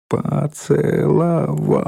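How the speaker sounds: поцеловал drawn out slowly, one syllable at a time. A narrator's reading. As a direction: spell out поцеловал in long separate syllables. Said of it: "произнесла Ленка по складам".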